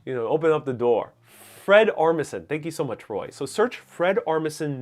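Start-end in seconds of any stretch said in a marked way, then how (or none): 0.3-1.1 "door" in a Brooklyn accent. Shown as a demonstration. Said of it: "say in a very Brooklyn way".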